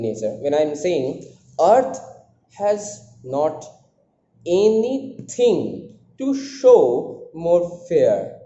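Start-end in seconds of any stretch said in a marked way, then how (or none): 1.6-8.4 slow scansion with a raised, forceful "Earth"; stress on EARTH. Shown as a demonstration. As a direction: hit "Earth" hard, then go foot by foot with pauses. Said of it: "I am putting the stress on earth".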